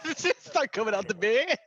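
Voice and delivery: a creeping monster that knows you're unarmed; spooky boogeyman voice. Pretend. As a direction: play the boogeyman sneaking out from under the bed.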